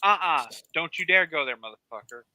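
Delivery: loud protest settling into a warning; emphatic refusal. Real, not acted. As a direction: shoot it down with repeated protests. Vehement refusal, warning the other off.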